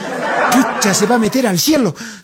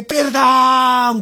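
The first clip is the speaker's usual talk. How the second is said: drawn-out wailing plea; long, slow hammed-up wail; mock cry for mercy; 3 semitones higher than usual. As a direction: cry out like a damned soul.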